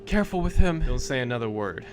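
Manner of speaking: Mary's warning. Acted. Mary warning her captain to stay silent. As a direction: hush him before he talks.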